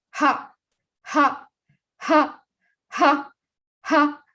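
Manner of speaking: laughter yoga ha chant; demo ha sounds. Shown as a demonstration. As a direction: bark out a clipped ha. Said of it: "I want all of you to say, "Ha".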